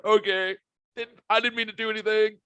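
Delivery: high-pitched mock-innocent excuse; retold meek protest. Husband excusing himself to his annoyed wife, mock-innocent protest. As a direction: plead innocence in a put-on high voice. Retold reply to wife's scolding.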